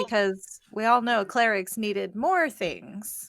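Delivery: slow, drawn-out sarcasm; sarcastic. Real, not acted. Co-host mocking the new cleric features, sarcastic. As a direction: lay the sarcasm on slowly. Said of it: "That was sarcasm".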